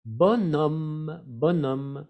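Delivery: Bonhomme said bo-nom, nasal broken before the M; French pronunciation. Shown as a demonstration. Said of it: "Ahí es como bonhomme".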